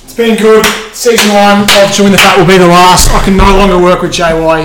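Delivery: high, loud protest, hamming up the horror; mock outrage. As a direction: declare the show over in mock horror. Mock outrage at sauce in fridge.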